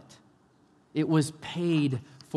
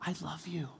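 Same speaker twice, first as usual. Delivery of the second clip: much softer, gentle loving voice; tender reassurance; 2 semitones higher, 11 dB quieter than usual. Acted. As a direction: say it like a quiet embrace. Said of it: "Instead, he says".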